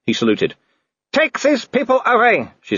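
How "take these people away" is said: snarling Baroness. A narrator's reading. Baroness snarling at the trapped party. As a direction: bite each word out.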